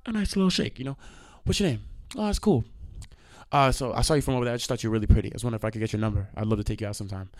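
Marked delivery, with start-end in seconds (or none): 1.4-7.3 soft, low smooth pickup line; quietly rehearsed chat-up; soft pickup demo. Shown as a demonstration. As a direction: ease into it gently like asking her out. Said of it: "let me do the whole motion".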